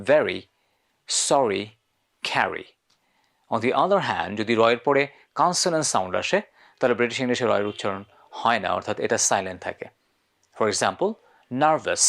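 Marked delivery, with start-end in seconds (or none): 0.1-2.7 "very" "sorry" "carry" with the R said between the vowels; British R before a vowel. Shown as a demonstration. 11.6-12.0 "nervous" said "nuh-vus" with no R; silent R. Shown as a demonstration. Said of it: "রটা silent হয়ে যাচ্ছে".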